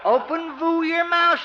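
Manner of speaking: snooty poodle voice. Acted. Doc coos at his poodle.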